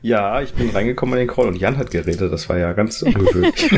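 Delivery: übersteuertes, verzerrtes Mikro; clipping distorted mic. Real, not acted. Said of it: "du übersteuerst ein bisschen". (übersteuerte Aufnahme, verzerrt)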